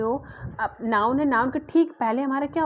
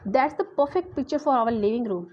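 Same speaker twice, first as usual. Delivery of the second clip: slow, weight on "perfect"; stress on perfect; much slower than usual. Shown as a demonstration. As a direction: lean on "perfect" as the key word. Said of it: "तो परफेक्ट जो है word पे emphasise किया जा रहा है".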